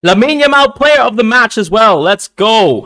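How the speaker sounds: high, loud celebratory shout; ecstatic cheer. Real, not acted. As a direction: hail the star player. Cheering player of the match.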